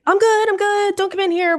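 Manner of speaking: reenacted high holler; retold screaming. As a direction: imitate calling out frantically to ward someone off. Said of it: "So I'm still screaming".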